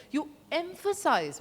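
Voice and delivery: emphasize said slow and stretched; stress on emphasize. Shown as a demonstration. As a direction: lean hard on emphasize. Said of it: "You heard the way I said".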